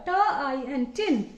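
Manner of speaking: प, एग, पेग sounded out slowly; slow teacher blending. Shown as a demonstration. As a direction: build पेग piece by piece. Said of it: "टी का phonic sound ट".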